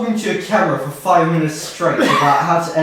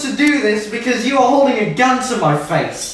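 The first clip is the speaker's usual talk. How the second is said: trying not to laugh; 7 semitones higher than usual. Real, not acted. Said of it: "I couldn't keep a straight face".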